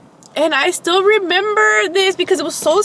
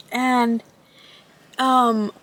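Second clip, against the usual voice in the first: scary voice; 3 semitones lower, 3 dB quieter than usual. Shown as a demonstration. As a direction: hush it like a campfire tale. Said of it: "say it in a scary voice".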